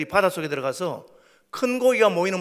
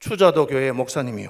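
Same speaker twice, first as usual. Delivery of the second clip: mock sulky, low, glum, dejected voice; 6 semitones lower than usual. Retelling how someone answered his question about the fish, imitating a glum answer. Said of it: "시무룩한 목소리로".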